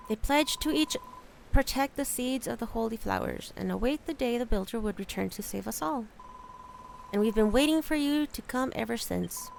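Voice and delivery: lightly voiced solemn elder; wise rat elder. Rat Elder recounting the covenant to the builder, solemn. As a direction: tell the old legend gravely.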